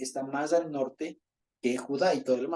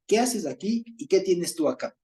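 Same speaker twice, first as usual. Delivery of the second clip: demanding spies; 5 semitones higher, 4 dB louder than usual. Retold or imitated. Spies confront the stranger.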